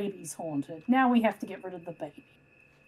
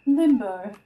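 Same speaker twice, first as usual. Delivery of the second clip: louder put-on American "Limbo."; American accent; 7 dB louder than usual. Shown as a demonstration. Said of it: "Is that your American accent?".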